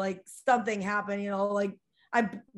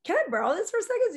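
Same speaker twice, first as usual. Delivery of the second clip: retold quick request; 10 semitones higher, 3 dB louder, faster than usual. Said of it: "I said".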